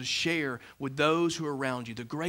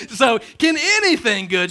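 mock doubt; 6 semitones higher, 9 dB louder than usual. Mocking question about Bradford.

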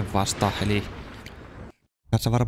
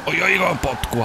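surprised delight; 7 semitones higher, slower than usual. Real, not acted. Car suddenly fast.

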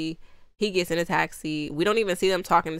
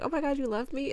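mock swoon; 8 semitones higher, 4 dB quieter, faster than usual. Romantic cliche she mocks.

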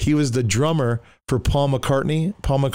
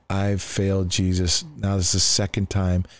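dejected admission; 3 semitones lower than usual. Retold or imitated. Retold despair after getting high.

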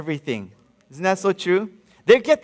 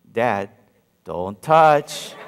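son; 10 semitones lower, much slower than usual. Retold or imitated. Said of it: "he goes".

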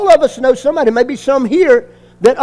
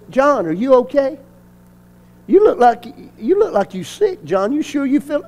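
feigned concern. Retold or imitated. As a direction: gently plant the idea that he looks sick. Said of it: "we were gonna make like we, he looked sick".

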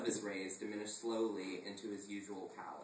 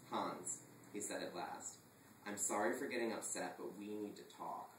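dangerously calm; 2 semitones lower, 6 dB quieter than usual. Acted. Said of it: "dangerously calm".

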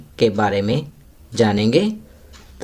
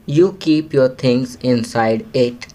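very slow, word-by-word English read aloud; slow classroom reading; much slower than usual. Shown as a demonstration. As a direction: read it slowly for young pupils to follow. Reads hint slowly. (बच्चों के लिए बहुत धीरे-धीरे अंग्रेज़ी पढ़ना)

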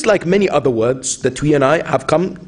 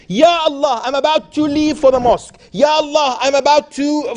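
sample dua; 10 semitones higher than usual. Shown as a demonstration. Demonstrates a dua.

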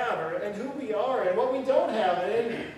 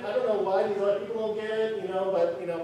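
smug agreement; 3 dB louder than usual. Pretend. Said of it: "I can't read this passage here and, and go".

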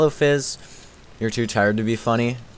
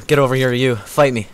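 louder mock challenge to fight; louder taunt; 4 dB louder than usual. Challenging the enemy to fight, louder mock taunt. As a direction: punch up the taunt. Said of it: "repeated taunt, louder".

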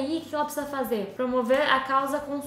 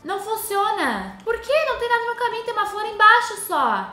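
high, exasperated complaint; indignant whine; 8 semitones higher, 3 dB louder than usual. Real, not acted. Gamer indignant at the sink, high exasperated whine. Player frustrated sink won't work.

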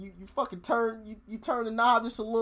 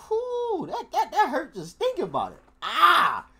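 wincing laugh; 5 semitones higher than usual. Real, not acted. Reacting to hot water on balls.

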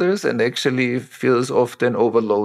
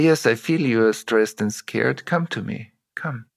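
soothing dad; 2 semitones lower than usual. Retold or imitated. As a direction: draw the child close gently. Attuned father comforting scared daughter.

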